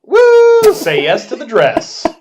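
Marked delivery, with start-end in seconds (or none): 0.0-0.7 loud high whoop; cheering. Acted. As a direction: whoop like at a wedding. Cheering the wedding news.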